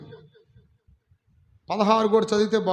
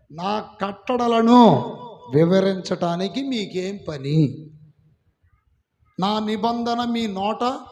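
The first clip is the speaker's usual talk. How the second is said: angry God; slower than usual. Acted. Preacher voicing God rebuking the wicked, slow angry rebuke. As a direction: drag out each word like an angry God scolding. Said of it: "కోపడుతున్నాడు".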